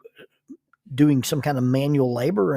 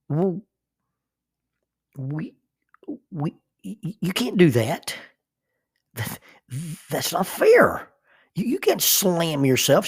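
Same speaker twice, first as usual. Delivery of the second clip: indignant protest; 4 semitones higher than usual. Retold or imitated. Husband protesting to wife who flopped on bed, high flustered indignation. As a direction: sputter that it's not fair.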